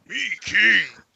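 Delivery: high-pitched put-on character voice. Answering with another impression: Grimlock voice. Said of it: "This is a pretty good Grimlock".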